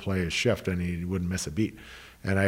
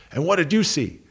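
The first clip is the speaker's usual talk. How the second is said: put-on very high, all-fired-up voice; 10 semitones higher, 3 dB louder than usual. Retelling how the coach stopped at the door and questioned them, imitating him fired up. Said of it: "he's all fired up and he goes".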